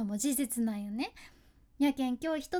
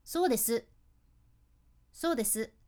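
curt, hard reply. Shown as a demonstration. Colleague answering a schedule question in a way that sounds irritated. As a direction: snap the final "す" down hard, no smile. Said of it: "口角を下げた感じで言うと".

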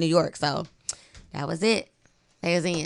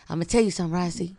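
lightly imitated co-host voice; Keith; 2 semitones lower, faster than usual. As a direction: do a mild take on your co-host. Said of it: "This Keith's voice, y'all".

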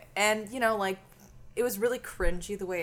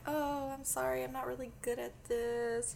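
hushed retelling; 4 semitones higher, 10 dB quieter than usual. Retold or imitated. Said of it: "why am I whispering?".

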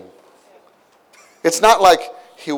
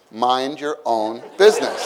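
mock retort. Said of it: "would say".

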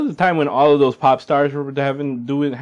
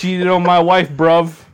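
loud hammed-up cockney; mock London accent; 5 semitones higher, 6 dB louder, slower than usual. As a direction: play a London geezer. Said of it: "You gotta say it in an accent".

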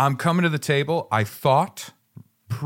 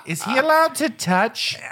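alarmed juror; 11 semitones higher than usual. Pretend. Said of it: "you can just see them go".

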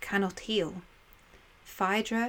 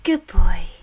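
fond; 10 dB louder than usual. Acted. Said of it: "almost fondly".

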